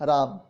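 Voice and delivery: slow राम, final a dropped; say-along demo. Shown as a demonstration. Teacher has class repeat राम slowly. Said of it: "आप भी बोलिए मेरे साथ".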